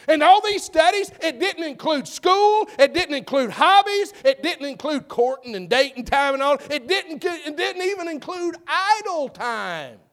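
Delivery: impassioned preaching. Acted. Preacher to congregation on how time gets spent, impassioned. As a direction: hammer out the list from the pulpit.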